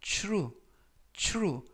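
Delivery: true said with the TR blended into a "chu" sound; teacher demo of the TR cluster in true. Shown as a demonstration. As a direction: say true as "chru". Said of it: "티알 발음이".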